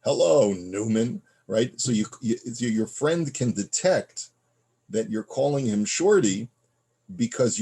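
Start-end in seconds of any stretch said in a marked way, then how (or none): 0.0-1.2 slow, louder mock sneer of a greeting; Seinfeld's sneer. Imitating Seinfeld greeting his enemy with slow disdain. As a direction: drawl out the name with disdain. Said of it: "Seinfeld used to call Newman".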